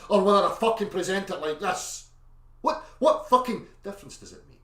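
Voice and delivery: fired-up angry rant. Shown as a demonstration. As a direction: hammer it with aggression. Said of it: "raise my fucking voice with aggression".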